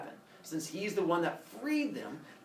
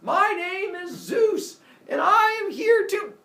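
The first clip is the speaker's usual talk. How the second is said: slow, loud, higher heroic proclamation; grand announcement; 8 dB louder, slower than usual. Acted. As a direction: announce yourself like a god on stage. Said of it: "walks in and goes".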